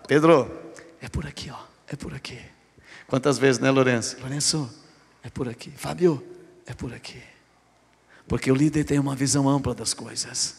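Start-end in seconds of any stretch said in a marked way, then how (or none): 0.1-2.4 gentle guiding hush. Acted. Jesus quietly showing Peter the way, soft and tender. 4.2-7.2 soft, low and quiet, guiding the way; gentle guiding hush. Acted. Jesus quietly showing Peter the way, soft and tender. Leader guiding church members.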